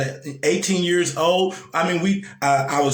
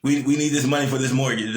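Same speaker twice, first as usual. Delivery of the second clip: mock demanding lender; 3 semitones lower than usual. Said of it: "That's all they care about".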